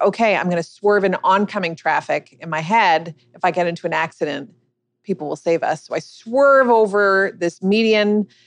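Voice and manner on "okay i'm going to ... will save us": usual speaking voice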